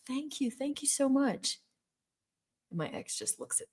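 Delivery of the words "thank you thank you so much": flattered thanks. Retold or imitated.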